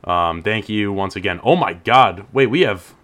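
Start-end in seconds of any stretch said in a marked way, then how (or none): 1.4-2.9 surprised. Real, not acted. Surprised by five messages.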